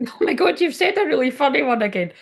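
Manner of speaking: delighted. Real, not acted. Delighted by a chat comment.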